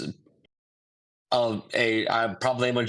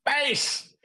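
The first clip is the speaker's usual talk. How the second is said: very high, theatrical shout of one word; Tim Curry impression. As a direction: camp villain hamming it up. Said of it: "Tim Curry".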